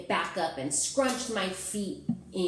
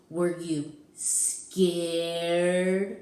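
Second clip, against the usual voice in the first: drawn-out, louder monster question; slow teasing question; 5 dB louder, much slower than usual. Acted. Gabe slowly teases the child about being scared. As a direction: stretch it out to tease.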